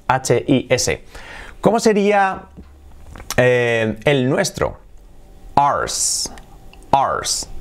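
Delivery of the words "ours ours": whispered demo. Shown as a demonstration. Teacher modelling "Ours" for students, whispered. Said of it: "Así sería".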